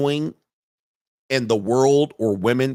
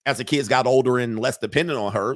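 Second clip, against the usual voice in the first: ordinary talk, nothing marked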